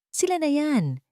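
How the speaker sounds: high sharp shout of a thug spotting them. A narrator's reading. Thug shouting to his gang as he spots the pair, high sharp shout. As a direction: yell it out, pointing them out. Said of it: "sigaw ng isa sa mga lalaki".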